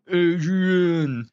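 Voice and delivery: high, loud shout of the name; excited shout. Retold or imitated. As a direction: call out like the movie scene. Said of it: "Aiba will go".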